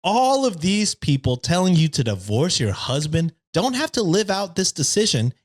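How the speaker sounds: smug, preachy internet neckbeard. Pretend. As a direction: read it like a smug forum poster. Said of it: "the neckbeard voice".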